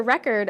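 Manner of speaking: record as REC-ord; record said REC-ord, as a noun; noun stress, first syllable. Shown as a demonstration. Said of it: "first syllable in the nouns".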